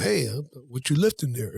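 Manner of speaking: low, hammed-up come-on; mock pickup line. Aggressive guy going up to chicks, mock low pickup voice. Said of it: "I don't just go up to chicks".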